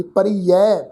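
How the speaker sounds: ਪਰੀਐ as "pa-ree-ai", ending open. Shown as a demonstration. Teacher showing the dulavan vowel, ਪਰੀਐ ending in open "ai". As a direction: finish ਪਰੀਐ on a clear open "ai". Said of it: "ਦੁਲਾਵਾਂ ਦੀ ਮਾਤਰਾ ਹੈ ਜੀ".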